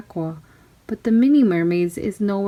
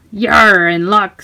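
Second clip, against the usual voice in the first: eager; 7 dB louder, slower than usual. Acted. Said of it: "said Peter".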